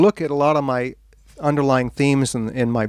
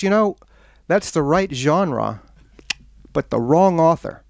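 mock-polite correction, measured and lifted; politely setting someone straight, with deliberate pauses; 3 semitones higher, slower than usual. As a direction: imitate a carefully courteous put-down. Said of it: "she said very politely".

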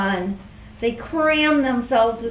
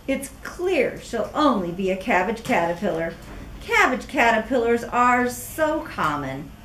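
snooty Katisha. Acted. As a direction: look down your nose at them. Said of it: "scoffed a scowling caterpillar".

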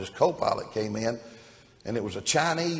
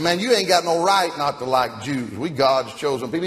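indignant loud voice; 4 semitones higher, 5 dB louder than usual. Acted. Pilot indignant at the co-pilot.

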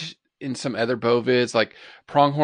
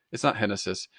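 normal talking voice

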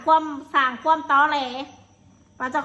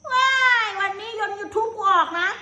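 higher, slow sing-song mimicry of a show-off; slow, high-voiced mockery of a rival bragging; mocking brag; 6 semitones higher, slower than usual. Vlogger mocks a rival boasting about YouTube income, higher and slow.

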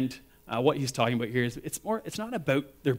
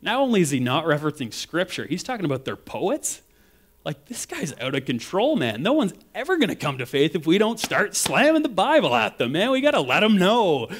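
hammed-up indignant churchgoer, rising louder; mock preachy critic, pitched up; 5 semitones higher, 3 dB louder than usual. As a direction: play the outraged critic, mocking. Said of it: "some of us could be going".

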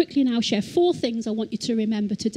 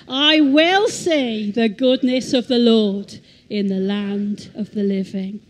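more confidence; 5 dB louder than usual. Shown as a demonstration. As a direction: proclaim it like you truly believe it. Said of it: "say it with a bit more confidence".

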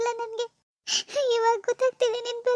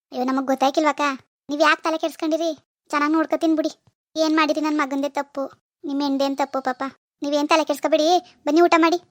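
lower, louder, brushing worries aside; loud hearty reassurance; 5 semitones lower, 4 dB louder than usual. Acted. Mother-in-law reassuring the visiting mother, loud and hearty. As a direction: boom out the welcome.

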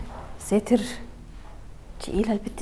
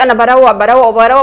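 mocking the girl; 13 dB louder than usual. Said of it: "طول النهار تقولي".

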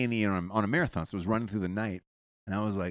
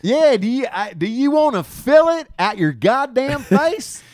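high, loud, slow mock shout; hammed-up yell; 14 semitones higher, 8 dB louder, slower than usual. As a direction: yell it like a cartoon brute.

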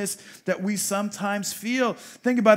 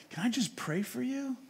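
gentle offer; 4 semitones higher, 6 dB quieter than usual. Retold or imitated. Offers prayer to grieving stranger.

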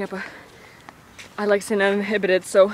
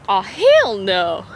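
drawn-out exclaim; 7 dB louder, much slower than usual. Pretend. Reacting to animal.

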